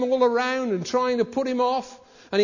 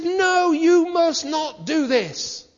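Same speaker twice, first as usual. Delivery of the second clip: stern Nehemiah; 7 semitones higher, 3 dB louder, much slower than usual. Retold or imitated. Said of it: "And Nehemiah said".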